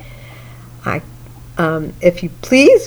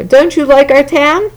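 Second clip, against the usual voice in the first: mayor voice; 5 semitones higher than usual. Acted. Mayor voiced, higher pitch.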